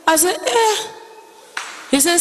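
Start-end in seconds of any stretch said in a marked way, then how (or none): 0.5-0.8 very high yelp of alarm; frightened woman answering the soldier, startled. Retold or imitated. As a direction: jump at being called.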